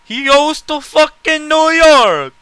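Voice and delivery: high, loud, slow incredulous yell; stunned disbelief. Real, not acted. Friend repeating the New York news in loud shock. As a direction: shout it in total disbelief.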